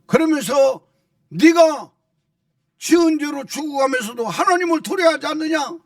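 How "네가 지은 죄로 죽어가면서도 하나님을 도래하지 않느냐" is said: higher-pitched retold scolding; acted reproach. One crucified thief reproving the other, acted reproach. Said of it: "이렇게 책망까지 하면서".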